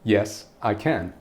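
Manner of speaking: slow, smug "Yes, I can"; drawn-out self-satisfied yes; deadpan smartass. Acted. Answering an online question with a slow smug yes. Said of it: "And you respond with".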